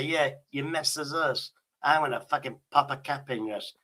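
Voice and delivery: lightly voiced London gangster threat; East End gangster. Shown as a demonstration. Man showing the AI the gangster attitude, light East End gangster. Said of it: "English mafia East End gangster style".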